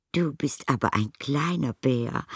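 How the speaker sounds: high, delighted motherly voice; high, fond exclamation; Mrs Brown charmed. A narrator's reading. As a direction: coo over the little bear, pitched well up. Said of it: "sagte Misses Brown".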